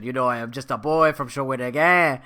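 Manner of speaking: a lightly done Québécois French accent, played badly; bad Jean Chrétien impression. Podcaster jokes with his infamous bad Québécois French accent. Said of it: "bad, uh, John Chrétien impression".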